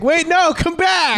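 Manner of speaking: calling him back. Retold or imitated. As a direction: call after someone who is leaving. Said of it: "Doesn't he say, like".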